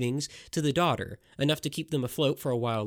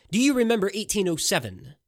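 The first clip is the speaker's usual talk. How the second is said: raised, pointed question to Lupien; cried out; 6 semitones higher, 5 dB louder than usual. Acted. Masked man cries out to Lupien, accusing. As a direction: call it out loud from the shadows. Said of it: "he cried".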